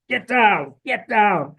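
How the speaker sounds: mock an army soldier yelling a command; imitated soldier's yell. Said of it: "army soldier yelling at him".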